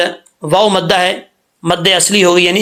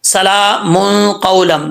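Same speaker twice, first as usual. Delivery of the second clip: slow melodic recitation; teacher recites the verse; Quran recitation; slower than usual. Shown as a demonstration. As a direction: recite it slowly and carefully. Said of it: "توجہ سے سننا ہے".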